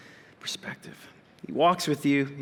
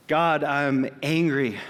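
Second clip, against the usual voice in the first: slow confession; much slower than usual. Retold or imitated. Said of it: "I just said".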